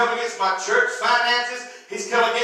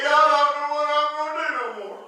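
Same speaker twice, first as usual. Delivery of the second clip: mock whining; 4 semitones higher, faster than usual. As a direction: imitate a helpless complainer. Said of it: "whine and cry and say".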